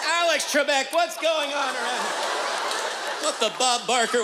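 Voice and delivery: high, hammy toe-stub yelp; mock pained exclaim. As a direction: yell it like you stubbed your toe. Stubbed toe mock cursing.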